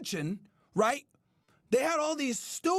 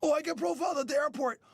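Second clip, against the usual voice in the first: mock whining; 2 semitones lower than usual. Mocking complainers.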